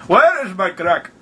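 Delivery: deliberate, drawn-out mock demand; slowed repeat. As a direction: say it slowly for someone who missed it. Repeats after listener says sorry.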